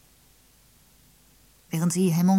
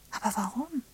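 lost for words; 7 semitones higher than usual. A narrator's reading. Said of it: "Molly suchte nach Worten".

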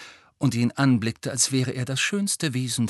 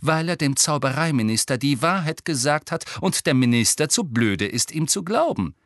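raised, emphatic in-character retort; hard, clear indignation, pitched up; 6 semitones higher, 4 dB louder than usual. A narrator's reading. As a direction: hammer the point home firmly. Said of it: "mit harter, klarer Stimme".

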